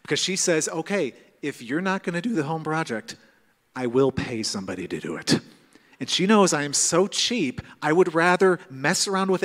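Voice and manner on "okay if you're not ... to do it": measured warning that sinks low at the end; retold threat, ending in a low deadpan; mock threat. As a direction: imitate a wife calmly laying down an ultimatum. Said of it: "She uses threats".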